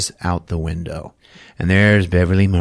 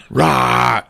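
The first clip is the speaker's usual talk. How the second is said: mock roar; 3 semitones higher than usual. Imitates panther attacking.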